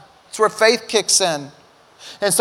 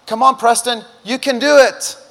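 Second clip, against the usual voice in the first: encouraging instructor; 5 semitones higher, 5 dB louder than usual. Retold or imitated. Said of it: "and says".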